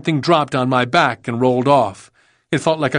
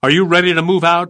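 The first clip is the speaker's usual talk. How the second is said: brisk, pitched-up military demand; 5 semitones higher, 5 dB louder, faster than usual. A narrator's reading. Colonel checking on his captain before moving out, demanding. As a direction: demand it quickly and sharply of a subordinate. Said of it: "Liversedge demanded".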